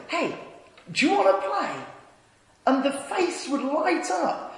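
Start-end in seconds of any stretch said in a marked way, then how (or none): 0.1-1.9 put-on brighter-pitched child calling to another; lightly voiced boy asking someone to play; son's friendly invite. Son inviting a shy child in, friendly raised-pitch call. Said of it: "my son would go over and say".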